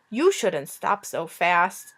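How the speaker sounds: a mild complaining dragon, drawn out. Acted. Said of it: "the dragon complained".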